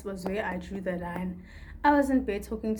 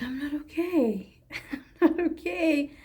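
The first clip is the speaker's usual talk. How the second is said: high, laughing admission of not being okay; laughing through it; 7 semitones higher, 4 dB louder than usual. Retold or imitated. Telling best friend how she really is, through laughter. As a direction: laugh it off while admitting the truth. Confiding to a friend she's struggling.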